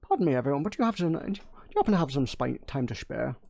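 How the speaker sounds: whispered Sean Connery Scottish retry; hushed Scottish Connery impression, half-breathed. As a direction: try the Scottish again in a whisper. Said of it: "Sean Connery".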